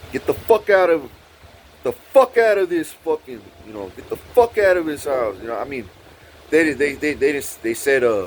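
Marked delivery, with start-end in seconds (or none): 0.1-5.4 raised, mock-angry heckle; jeering dismissal. Friends laughing at her and chasing her off, jeering. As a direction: imitate friends running someone off.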